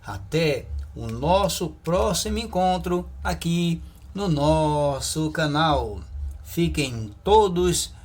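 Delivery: slow, drawn-out farewell blessing; ceremonial sign-off. Real, not acted. Teacher blesses viewers until the next lesson, drawn-out sign-off. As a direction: stretch the closing words out with emphasis.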